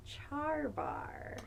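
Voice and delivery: breathy dramatic whisper. Acted. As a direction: reveal it in a whisper.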